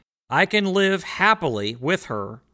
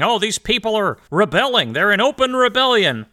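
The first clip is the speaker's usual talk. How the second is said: raised, louder mock complaint; mocking whiny politicians; 4 semitones higher, 4 dB louder than usual. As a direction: whine it like a put-upon politician. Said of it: "those politicians sit around complaining".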